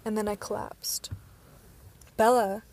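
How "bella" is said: sudden loud cry of alarm; shouting her name in alarm as she collapses. A narrator's reading. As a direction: call her name out, startled and scared. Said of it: "His voice was alarmed".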